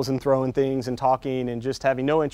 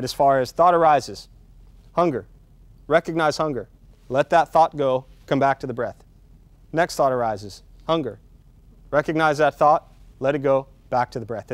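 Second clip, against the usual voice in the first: guided meditation demo; 3 semitones lower than usual. Shown as a demonstration. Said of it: "I want to demonstrate something".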